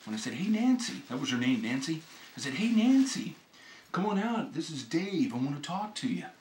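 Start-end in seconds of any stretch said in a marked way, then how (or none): 0.3-1.0 higher-pitched call out to someone; retold call up to a house; retold yell. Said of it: "yelling pretty loud". 2.5-6.3 mild retold yell, fading. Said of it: "yelling pretty loud".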